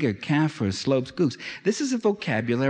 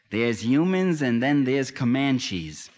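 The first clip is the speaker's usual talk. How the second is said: quoting John Wayne; slower than usual. Retold or imitated. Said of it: "As John Wayne said".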